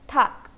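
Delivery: थाक as one syllable ending in k; pronunciation demo. Shown as a demonstration. Teacher answers how the syllable is pronounced, demonstrating थाक with final k. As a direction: model थाक with only the k at the end. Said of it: "इसका pronunciation क्या होगा".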